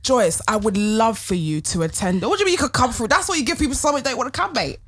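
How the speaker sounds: sweet invite. Shown as a demonstration. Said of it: "How do you want us to invite you?".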